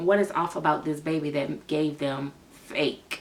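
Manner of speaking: plain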